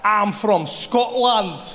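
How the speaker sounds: slow, drawn-out put-on Scottish accent. Trevor bluffing to the shopkeeper, slow Scottish accent. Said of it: "learn the Scottish accent".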